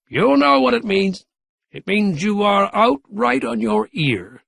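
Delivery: put-on spry old man gloating; gloating old Gramp. A narrator's reading. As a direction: rub the mayor's nose in it. Gramp's voice in the story.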